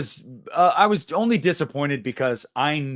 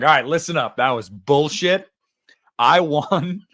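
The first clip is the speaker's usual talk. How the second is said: mock stern; 2 semitones higher, 6 dB louder than usual. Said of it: "I was like".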